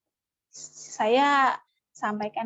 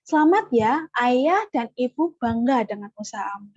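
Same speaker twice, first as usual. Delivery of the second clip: proud praise. Shown as a demonstration. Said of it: "Nih, ibu-ibu coba ucapkan".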